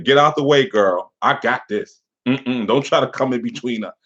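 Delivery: put-on a touch of a sassy "get out the way, girl"; lightly voiced rival shooing her away; mock possessive reading. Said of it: "that's how I take that".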